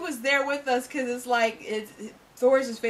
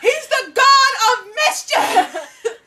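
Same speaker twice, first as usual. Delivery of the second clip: exasperated reader; 10 semitones higher, 5 dB louder than usual. Retold or imitated. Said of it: "you're like".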